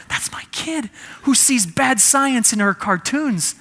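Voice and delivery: slow, high, bursting with pride; proud dad. Retold or imitated. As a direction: savor each word like a beaming father. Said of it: "My chest swelled".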